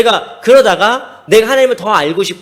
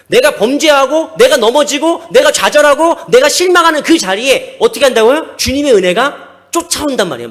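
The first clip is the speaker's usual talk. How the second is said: rising louder and higher with each clause; building preaching; 5 semitones higher, 5 dB louder than usual. Real, not acted. Pastor rousing the congregation, building to a forceful cry. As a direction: build the list toward a full-force cry.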